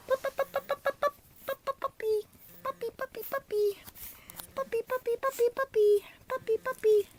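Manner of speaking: very high sing-song chant; puppy call. Real, not acted. Owner chanting high to call the puppies.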